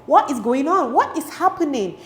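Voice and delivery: hammed-up confusion; bewildered. Girl left out as friends stop talking, bewildered.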